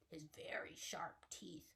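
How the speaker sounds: unvoiced secret whisper. Telling the kids the mouse's secret weapon, whispered. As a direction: share the secret in a hush.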